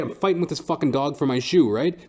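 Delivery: usual speaking voice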